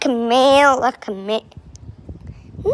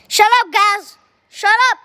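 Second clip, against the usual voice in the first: shouting shut up; 7 semitones higher, 4 dB louder than usual. Real, not acted. Yelling at noisy players.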